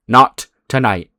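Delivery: slow "Not tonight" with a gap between the words; acted, spaced-out "Not tonight"; measured refusal. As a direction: repeat "Not tonight" deliberately, letting it settle. Official repeats it more slowly.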